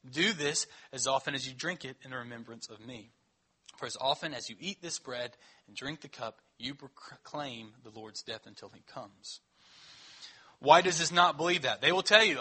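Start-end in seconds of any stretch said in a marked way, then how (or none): 0.1-9.4 measured, solemn Bible reading; scripture reading. Acted. Pastor reading the Lord's Supper text to the church, solemn.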